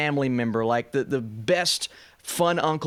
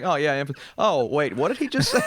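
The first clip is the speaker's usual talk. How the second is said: double take; 3 semitones higher than usual. Retold or imitated. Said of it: "I was just like".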